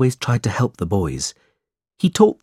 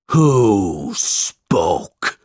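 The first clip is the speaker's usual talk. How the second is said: angry shout; 4 dB louder than usual. A narrator's reading. Squeers demands who spoke, angry and loud. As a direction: snap the question at the room. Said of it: "he shouted angrily".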